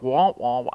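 mock trombone-like wah wah; Peanuts adult voice. Pastor mimicking Peanuts adults, muffled wah wah. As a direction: imitate the muffled grown-up in Peanuts. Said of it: "that's how my grandpa spoke".

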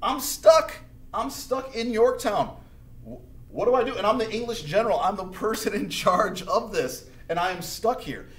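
high, loud mock panic that peaks on stuck; hammed-up trapped general. Cornwallis finds himself surrounded, high loud mock panic. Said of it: "he's like".

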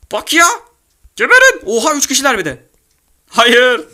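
very high, loud frantic yelling; shrieking gamer panic; screaming in a fight. Real, not acted. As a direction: scream at the enemies closing in.

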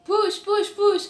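high, loud command; nurse instructing. Acted. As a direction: shout the order to push. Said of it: "The nurse instructed you".

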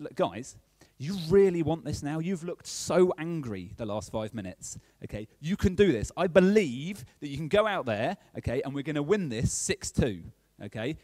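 rallying the team, lifted pitch on the key lines; retold half-time team talk, punchy and urgent; retold pep talk. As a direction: urge them on like a coach.

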